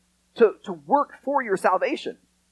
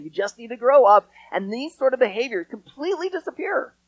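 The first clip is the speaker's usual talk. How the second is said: sarcastic. Pretend. Pastor teasing the kids with sarcastic good news. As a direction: lay the irony on thick. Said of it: "the sarcasm in my voice".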